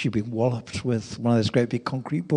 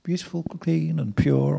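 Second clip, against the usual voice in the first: smiling; 3 semitones higher, 3 dB quieter than usual. Retold or imitated. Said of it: "she said with a big smile".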